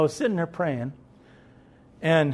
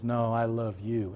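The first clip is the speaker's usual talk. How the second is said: God's quiet reply; 6 semitones lower, 7 dB quieter, slower than usual. Retold or imitated. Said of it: "And he goes".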